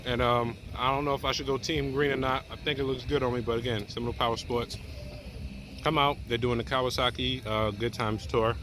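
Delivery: eating while talking; words around a bite of pizza; mouth full. Real, not acted. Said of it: "It's so bad I'm eating while doing this video".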